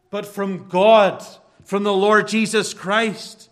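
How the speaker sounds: slow, ringing declaration; proclaiming. Acted. Preacher's climax after pause.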